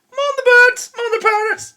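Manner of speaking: high, loud comic exclamation; laughing, hammed-up shout to close the rant; mock shout. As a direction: bellow it like a punchline. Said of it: "I should have finished that with".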